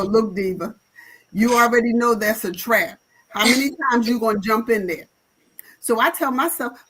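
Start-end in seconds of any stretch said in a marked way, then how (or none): 0.0-5.1 scolding herself. Retold or imitated. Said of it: "I call myself Diva".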